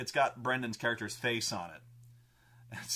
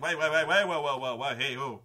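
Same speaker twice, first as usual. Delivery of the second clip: louder, rushed wait wait; panicked stalling; 6 dB louder than usual. Retold or imitated. Brendan begging the party not to turn him in, panicked. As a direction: scramble to stop them. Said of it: "And he's like".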